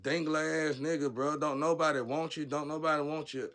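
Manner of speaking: loud, high angry rant at him; heated rant. Real, not acted. Angry rant at the cockroach man.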